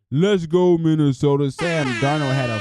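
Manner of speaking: loud, high cheer for Minnesota; excited cheer. Real, not acted. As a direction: shout it out like a fan in the stands. Cheering for his team.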